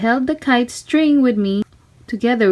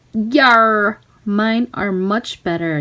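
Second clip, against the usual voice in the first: pirate yell; slower than usual. Acted. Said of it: "yelled the other".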